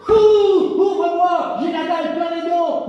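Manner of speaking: a loud, greedy wolf demanding entry; big bad wolf. Wolf calls to the pig, loud and hammy.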